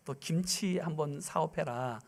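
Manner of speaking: hushed divine prompting; quiet calm command. Retold or imitated. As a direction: give the instruction gently and slowly. God's command retold.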